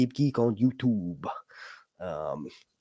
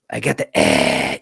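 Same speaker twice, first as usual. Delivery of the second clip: mock patient; 8 dB louder, slower than usual. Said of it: "you go to the doctor".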